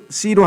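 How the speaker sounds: sí said as 씨로; mispronounced sí. Retold or imitated. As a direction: imitate the Ephraimite 씨로. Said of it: "sí 발음을 못 해가지고". (틀린 발음 씨로)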